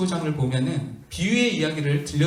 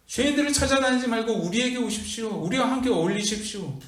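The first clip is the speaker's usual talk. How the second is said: retelling the Pharisees' protest, pitched a bit higher; a hint of self-righteous complaint; preacher playing the scribes arguing with Jesus; mock indignant Pharisees; 3 semitones higher than usual. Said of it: "이렇게 따졌어요".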